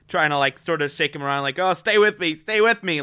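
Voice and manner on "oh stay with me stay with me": imitating urgency. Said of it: "this urgency in her voice".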